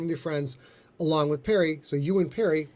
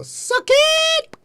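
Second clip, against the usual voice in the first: high, loud gloating taunt; triumphant yell; 8 dB louder than usual. Real, not acted. Host gloating loudly at his co-host after the accent. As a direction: crow it at your co-host.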